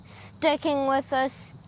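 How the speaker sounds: hissing snake-like s sounds; drawn-out s like a snake. Real, not acted. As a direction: stretch every s into a hiss. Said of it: "You sound like a snake right now".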